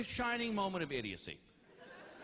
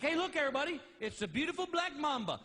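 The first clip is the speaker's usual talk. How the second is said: own show host; 6 semitones higher, faster than usual. Acted. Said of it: "'Cause I'd be like".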